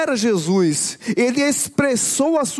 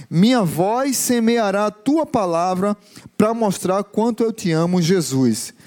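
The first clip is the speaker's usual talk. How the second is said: lower, measured poem-like recitation; reciting song lyrics; 4 semitones lower than usual. Acted. Recites song refrain from the pulpit.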